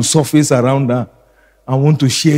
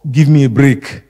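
mock exasperated mother; 6 dB louder than usual. Voices a tired complaining mother.

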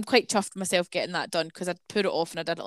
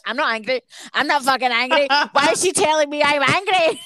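mock denial; 5 semitones higher, 4 dB louder than usual. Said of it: "because you're like".

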